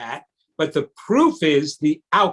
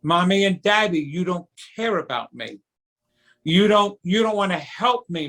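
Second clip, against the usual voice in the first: put-on hurt child. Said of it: "put the phrase "mommy" and "daddy" before the sentence".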